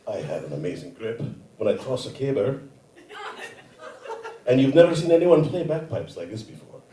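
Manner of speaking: comic Scottish seductress; Scottish accent. Acted. Imagined Scottish woman flirting on a golf course, Scottish accent. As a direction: play a flirty Scotswoman with a Scottish lilt. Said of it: "when I do a Scottish accent".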